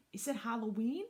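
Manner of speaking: put-on high, curious small-child question; little boy. Little brother asking about Halloween, high child voice. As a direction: ask it like a puzzled little kid.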